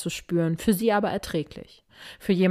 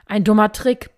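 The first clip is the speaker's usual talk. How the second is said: loud, higher bellow of disbelief; disbelieving roar; 4 semitones higher, 7 dB louder than usual. A narrator's reading. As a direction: roar it out, stunned and furious. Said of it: "brüllte er ungläubig und fassungslos". (ungläubiges, fassungsloses Brüllen)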